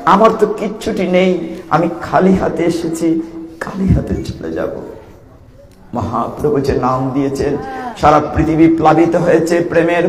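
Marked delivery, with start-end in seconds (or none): 0.1-4.7 humble prayer. Acted. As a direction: offer it humbly, letting the voice sink away. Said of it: "বলি".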